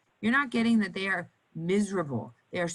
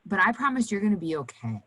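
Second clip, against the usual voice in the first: soothing nurse voice; 2 semitones higher than usual. Shown as a demonstration. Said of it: "My voice, my body language, everything else changes".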